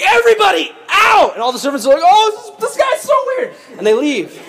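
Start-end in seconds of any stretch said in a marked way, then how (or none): 0.0-1.3 high, loud dramatic shout; shouted order. Acted. Joseph orders servants out. 2.0-3.5 hammed-up high-pitched squeal; mock panic, voice shooting way up high; freaked-out servants. Servants flee, unsettled by Joseph.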